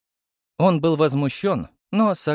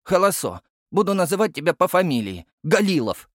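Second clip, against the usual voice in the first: put-on high, quick lisping child voice; cheekily mangle the name; lisping toddler tease; 7 semitones higher, 4 dB louder than usual. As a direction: toddler needling the captain.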